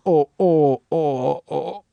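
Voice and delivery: lightly imitated dismayed cashier; mock-mortified ohs, fading off; Edie McClurg. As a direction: let a string of pitying ohs die away. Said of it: "She's like Edie McClurg and fucking Ferris Bueller".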